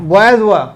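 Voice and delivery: "were" said short as "wər", not "wear"; correct pronunciation. Shown as a demonstration. Teacher showing the correct "were". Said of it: "इसका उच्चारण वेयर करते होंगे, वर इसका pronunciation है".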